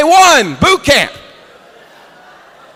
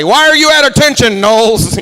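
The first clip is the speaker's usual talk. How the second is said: drill instructor yell; 4 semitones higher, 3 dB louder than usual. Retold or imitated. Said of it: "he just called me out in front of everybody".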